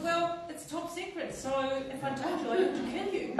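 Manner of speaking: high playful mock spy line; mock secret agent. Commissioner teasing the little girl, mock secret-agent line. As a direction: tease like a spy keeping a secret. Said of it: "I said".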